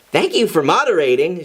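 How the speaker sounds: lightly sassy thanks; a touch of sass in the thanks. Acted. Jean thanking Sun with mild sass. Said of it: "in a sassy manner".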